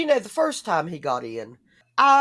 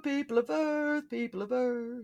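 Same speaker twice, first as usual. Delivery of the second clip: booming arrogant alien overlord; 9 semitones higher, slower than usual. Pretend. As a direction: hail the humans like a space ruler. Alien greeting to Earth.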